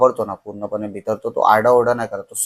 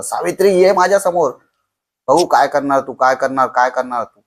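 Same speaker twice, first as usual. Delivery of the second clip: frantic yelling; 3 semitones higher than usual. Retold or imitated. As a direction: scream her name, then taunt weaker and weaker. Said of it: "तो ओरडतोय तिथे जोरजोरात".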